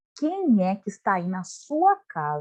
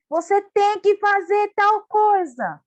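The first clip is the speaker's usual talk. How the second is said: bossy order; 9 semitones higher, 5 dB louder, slower than usual. Acted. Bossy demand acted out.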